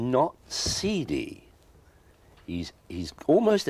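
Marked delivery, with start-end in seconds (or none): 0.1-1.5 not seedy, slow with NOT hit hard and high; firm slow denial, not stressed. Real, not acted. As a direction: slowly push back on seedy, leaning on not. Denying the word seedy.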